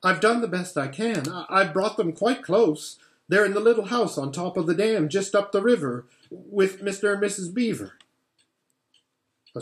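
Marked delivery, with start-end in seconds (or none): 0.0-7.9 put-on higher, hurried boy's excuse; nervous Edmund. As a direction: rush the excuses out.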